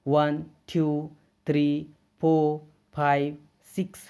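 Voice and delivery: counting along. Shown as a demonstration. Teacher leads students counting along with him. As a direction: lead the class through the numbers. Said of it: "आप लोग भी मेरे साथ पढ़ेंगे इसको".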